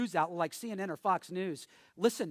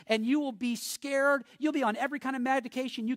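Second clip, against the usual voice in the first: rising warning; 4 semitones higher than usual. Real, not acted. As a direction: press the warning home, building. Preacher building to a warning.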